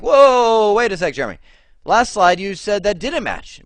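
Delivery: loud, high mock objection; objecting student. Student objecting to the teacher, high and loud in mock protest. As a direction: play the confused student catching him out. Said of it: "some of you are like".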